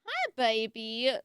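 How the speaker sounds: slow, tender greeting to a pet. Real, not acted. Greeting her tiny dog, slow and tender. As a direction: coo it slowly to the dog.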